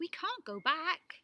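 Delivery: slow, high and loud protest; stretched out and strained; desperate. Acted. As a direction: plead that there's no way back. Tally's despair in forest.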